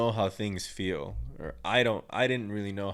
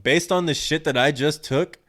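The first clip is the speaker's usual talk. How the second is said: incredulous outburst; 4 semitones higher, 7 dB louder than usual. Retold or imitated. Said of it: "I was like".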